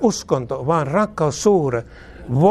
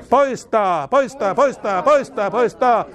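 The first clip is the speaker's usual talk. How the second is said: higher and higher, hammering each poistaa; rising commanding cry; 6 semitones higher, slower than usual. Real, not acted. Preacher casting out demonic hindrances, rising commanding cry. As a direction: drive the word out like a command.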